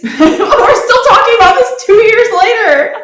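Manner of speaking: loud, high exclamation through laughter; incredulous outburst. Real, not acted. Incredulous laughing outburst at old debate.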